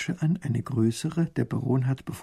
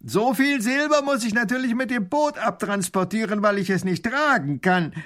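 robber voice; 9 semitones higher, 6 dB louder than usual. Acted. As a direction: announce it grandly. Robber explains.

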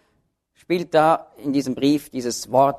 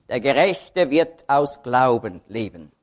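slow, weight on "Gerechte"; stress on Gerechte; 5 semitones lower, slower than usual. Shown as a demonstration. Preacher reading Römer, slowly stressing "Gerechte". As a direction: lean on the word "Gerechte", taken slowly. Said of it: "jedes Mal liegt die Betonung aber ein bisschen anders".

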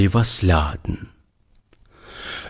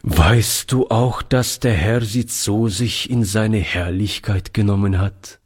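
solemn. Acted. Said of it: "sagte feierlich".

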